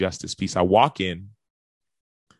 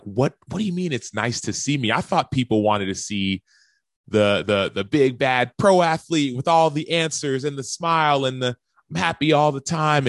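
higher, louder, incredulous blurt; confused protest; 7 semitones higher, 6 dB louder than usual. Retold or imitated. Pro athlete baffled that a man likes seeing him weep, confused protest. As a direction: pour it out in baffled, rising protest. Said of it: "I was confused".

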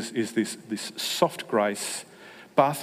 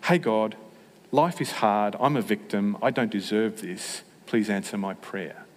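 whiny victim prayer. Retold or imitated. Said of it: "Or the alternate".

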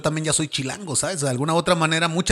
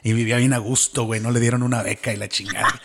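mocking Monterrey meat snob; 4 semitones lower than usual. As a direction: brag about the beef like a proud regio. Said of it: "topas a alguien de Monterrey".

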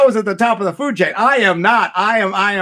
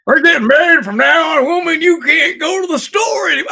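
controlling husband; 10 semitones higher, 4 dB louder than usual. Retold or imitated.

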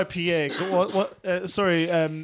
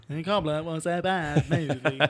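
mock Google Translate voice. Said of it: "that was actually me".

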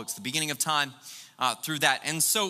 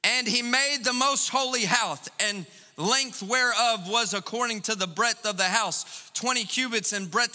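mock scripture reading; 5 semitones higher than usual. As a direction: read it out like an old solemn text. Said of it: "I just kind of turn to the middle and I go".

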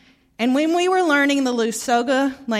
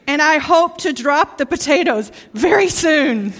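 laughing; 5 semitones higher, 7 dB louder than usual. Retold or imitated. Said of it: "She once said to me".

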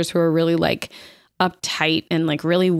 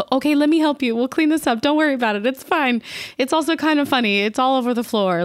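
reassuring family; 6 semitones higher, faster than usual. Retold or imitated. Mom and Amy soften toward her.

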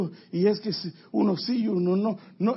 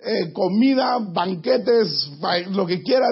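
slow, emphatic food list; listing the feast; 2 semitones higher, 4 dB louder, slower than usual. Acted. Preacher voicing the psalmist listing every food, slow and emphatic. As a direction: stretch out each dish.

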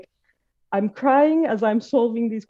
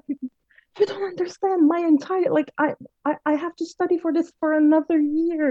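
much higher, pleading younger self; retold distress; 10 semitones higher than usual. Young self pleading with the cleaning lady, high and distraught. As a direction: protest tearfully like the desperate teen. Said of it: "I was like".

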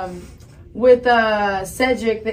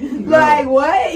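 put-on valley girl; 5 semitones higher, 6 dB louder than usual. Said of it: "Oh, yeah, the Valley".

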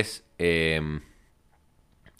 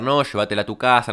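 mild mock yell, a bit higher; retold yelling; 4 semitones higher, 4 dB louder than usual. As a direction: imitate her yelling, half-strength. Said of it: "me empieza a gritar". (grito imitado a media voz)

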